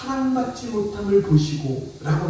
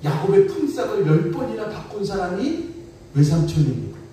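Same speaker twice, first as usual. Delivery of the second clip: ordinary talk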